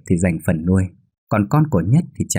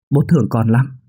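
emotional father; 4 semitones higher than usual. A narrator's reading. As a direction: pour out love to the child, choked with emotion. Father embraces son, apologizes.

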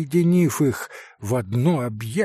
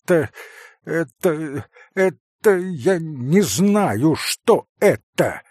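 slow, louder, higher bewildered repeat; 4 semitones higher, 4 dB louder, slower than usual. Acted. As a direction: sputter it out in shock. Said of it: "громко повторяя".

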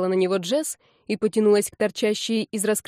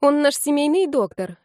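high, hurried blurt; 6 semitones higher, 4 dB louder than usual. A narrator's reading. Heroine covering for the troll, blurted lie. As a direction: say the first thing that comes. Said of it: "ляпнула первое, что попало".

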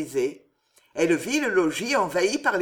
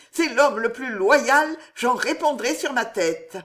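eager; 5 semitones higher, 4 dB louder than usual. A narrator's reading.

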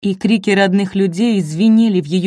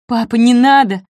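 higher and louder desperate cry; shout; 4 semitones higher, 6 dB louder than usual. A narrator's reading. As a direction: scream to stop him. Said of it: "закричала Нина". (отчаянный крик, выше и громче)

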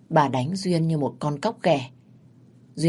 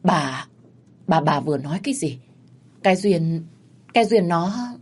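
halting, stumbling over each word; husband stammering in shock at his wife's ghost. Acted. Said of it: "lắp bắp".

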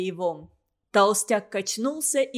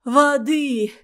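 1 groaned plea; 3 semitones higher, 5 dB louder than usual. A narrator's reading. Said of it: "простонал Азиз".

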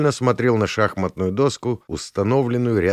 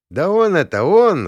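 high, excited accusing cry; high-pitched finger-pointing shout; another thug's voice; 10 semitones higher, 5 dB louder than usual. A narrator's reading. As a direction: pipe up loudly from the gang, pitched high. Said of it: "раздался рядом другой голос".

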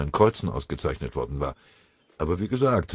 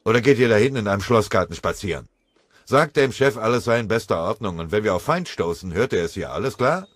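loud, fast angry rant; 4 semitones higher, 4 dB louder than usual. Acted. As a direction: fire it off in a temper. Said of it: "antwortete Scharf wütend".

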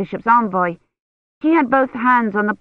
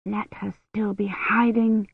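soft, slow hushed plea; quiet prayer; 2 semitones higher, 6 dB quieter, slower than usual. A narrator's reading. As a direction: pray under her breath. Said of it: "Kivrin prayed".

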